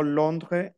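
"Londres" with no S at the end; silent final S. Shown as a demonstration. Teacher explains her own saying of Londres, silent S. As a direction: drop the last S of "Londres". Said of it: "no pronuncio la S final".

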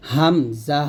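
হামজা slowly, both syllables drawn out; Hamza-Aussprachedemo. Shown as a demonstration. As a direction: say হামজা as a careful, long-held model. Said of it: "এরকম".

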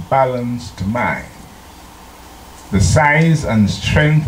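slow, weighty reading of a sacred text; solemn reading. Acted. Preacher reads the Testimonies to the congregation, slow and solemn. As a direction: read it slow like scripture.

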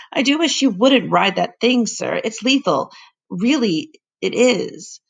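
worried housekeeper. Acted. Housekeeper worries about the bike.

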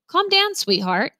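slow, soothing father hushing his upset daughter; soft and calming. A narrator's reading. Dad gently calming his frantic daughter, slow and soothing. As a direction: ease her down gently, slowly. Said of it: "Dad said softly".

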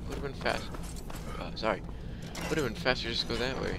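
talking through hiccups; hiccuping between words. Real, not acted. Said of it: "I have the hiccups for some reason".

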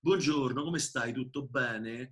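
Italian greeting in a Roman accent; Roman-accented buongiorno. Shown as a demonstration. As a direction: say it like a Roman would. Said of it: "The Romans speak like this".

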